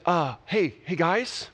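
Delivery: rising, eager and awkward; nervous invitation to hang out; a hint of a fumbling, overeager guy; awkward Peter. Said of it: "he's like".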